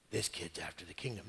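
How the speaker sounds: low, quiet suspicious mutter. Retold or imitated. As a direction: mutter it under your breath, eyeing him. Saul suspicious, voiced muttering.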